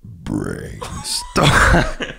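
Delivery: word pushed out on a burp; burp talking. Shown as a demonstration. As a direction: say it while burping. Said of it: "that was a half burp".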